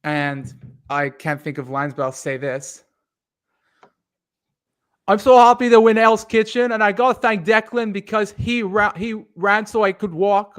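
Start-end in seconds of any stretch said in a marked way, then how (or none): 5.1-10.6 put-on higher, louder Irish-accented winner speech. Mimicking the Irish winner thanking Declan, in an Irish accent. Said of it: "You got the accent down kinda decent".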